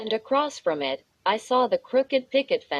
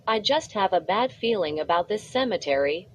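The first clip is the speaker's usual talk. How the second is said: stammering. Acted. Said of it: "I stammered".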